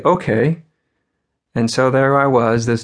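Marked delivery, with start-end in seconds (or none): 0.0-0.6 light, innocent okay, higher and rising; innocently accepting, lifted at the end. Retold or imitated. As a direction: retell a naive kid agreeing. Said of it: "I said very innocently".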